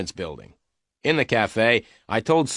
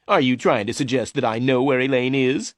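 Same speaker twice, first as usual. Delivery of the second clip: mild anger; 4 semitones higher, 3 dB louder than usual. A narrator's reading. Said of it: "Mister Meyer replied angrily".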